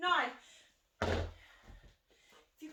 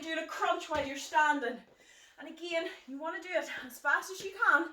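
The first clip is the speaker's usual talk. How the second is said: out of breath. Real, not acted. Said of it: "I'm already getting out of breath".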